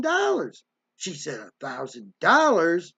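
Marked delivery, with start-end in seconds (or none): 1.4-2.9 slow, disbelieving repeat of the amount; drawn-out, affronted disbelief; incredulous echo. Retold or imitated. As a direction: imitate a mother scoffing at the sum. Mother scoffs at the sum.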